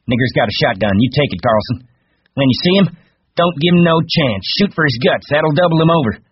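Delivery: high, loud, commanding; fierce orders. A narrator's reading. Curly orders the men to shoot Lenny, fierce. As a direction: drive the men on, climbing in pitch.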